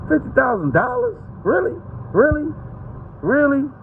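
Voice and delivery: very high disbelieving questions; incredulous. Real, not acted. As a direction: scoff at the tiny sum. Incredulous at reward sum.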